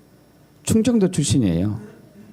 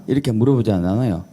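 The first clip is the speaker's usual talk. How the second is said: ordinary talk, nothing marked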